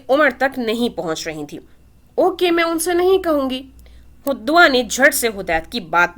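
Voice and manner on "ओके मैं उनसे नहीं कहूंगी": put-on high, obedient child's promise; a toddler readily agreeing; little girl voice. A narrator's reading.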